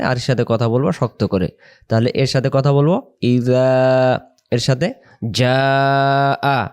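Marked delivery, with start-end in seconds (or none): 1.9-6.7 ইযা soft, যা আ hard and drawn out; soft then hard letter. Shown as a demonstration. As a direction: contrast soft ইযা with firm যা আ. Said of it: "এর সাথে কথা বলবো নরম করে". (নরম ইযা, শক্ত যা আ)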